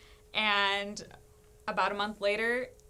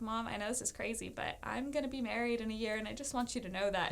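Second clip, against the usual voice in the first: softer, quick and matter-of-fact; retold earnest confession; 6 dB quieter, faster than usual. Daughter telling mom she will marry, softly earnest.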